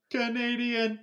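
high, sing-song call of Canadian; pointing out Canadians. Retold or imitated. Husband calling out a famous Canadian on TV to his wife. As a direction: announce it with a high, drawn-out lilt. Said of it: "I'll definitely just be like".

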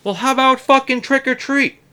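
high, loud sarcastic snap; sarcastic shout. Retold or imitated. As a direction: yell it back with scorn. His snapped reply at door.

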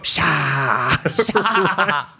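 drawn-out "sha" sneak-attack cry; mock attack cry. Host imagining her sneaking up on someone, mock attack cry. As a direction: pounce with a long imitated "sha". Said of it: "sneak up on someone and go".

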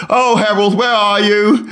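put-on high, whiny British accent calling out. British man searching for his friend, high British accent. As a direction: pine for Harold in a British accent. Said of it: "Dat is zo'n Brit".

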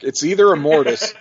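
cracking like a seventh grader. Real, not acted. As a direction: voice jumping high on Immortus. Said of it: "why did my voice crack?".

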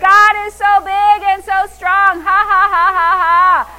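loud, high proclamation into ha-ha laughter; exultant shout. Real, not acted. Preacher glorying in God's strength, shouting and laughing. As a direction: crow it triumphantly, then laugh big.

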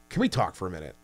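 low, hushed ask, kept between the two of us; hushed request. Retold or imitated. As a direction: lean in and ask quietly. Discreetly asking manager at desk.

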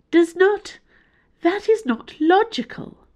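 a distressed house AI pleading logic. A narrator's reading. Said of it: "sounding genuinely distressed".

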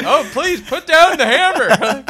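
high, loud, slow, laughing plea; begging child. Acted. Child begging father to drop the hammer, high pleading. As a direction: beg for your life, hammed up.

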